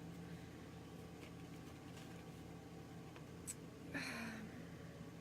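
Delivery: long, very soft sigh. Real, not acted. Pausing while pulling cards, soft sigh. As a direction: let out a quiet breath.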